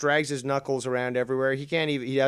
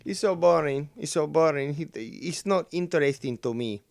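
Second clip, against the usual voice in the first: put-on Latino accent, higher and louder; 3 semitones higher, 4 dB louder than usual. Bored viewer mocking the show, in a Latino accent. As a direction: complain in a mock Latino accent. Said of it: "doing a Latino accent".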